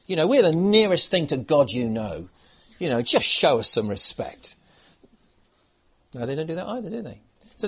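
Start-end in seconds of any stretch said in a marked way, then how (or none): 0.1-4.6 hammed-up self-important apostle; mock pulling rank. Preacher mimics apostles pulling rank on the church. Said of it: "they don't pull rank".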